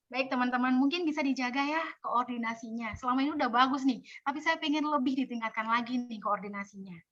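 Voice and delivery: teguran halus, santai dan agak pelan di akhir; lebih adem. Shown as a demonstration. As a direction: bujuk tim dengan lembut tanpa menyalahkan. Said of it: "Lebih adem". (ajakan adem seorang ketua)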